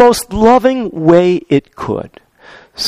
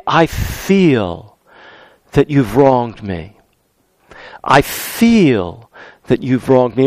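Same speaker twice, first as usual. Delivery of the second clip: lower, softer and slower, gently owning the hurt; softer I statement; 6 semitones lower, 4 dB quieter, slower than usual. Shown as a demonstration. Pastor shows the gentle way to tell someone of a wrong, softly. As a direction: say it gently as your own feeling. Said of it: "Or we can say".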